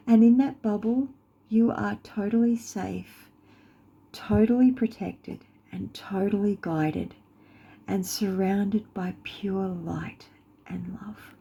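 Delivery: measured, soothing phrases that soften at the end; guided meditation. Acted. Guide surrounds listener with light and love, soothing meditation voice.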